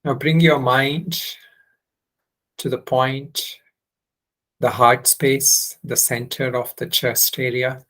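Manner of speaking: unhurried instructions with long pauses; guided meditation. Real, not acted. Teacher leading students into heart-centre meditation, unhurried guiding voice. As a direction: guide them gently into the practice, phrase by phrase.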